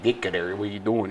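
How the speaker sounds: low, soft North Side Chicago imitation; deep Chicago accent. Host showing how Chicago's north talks, deep accent. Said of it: "it's real deep".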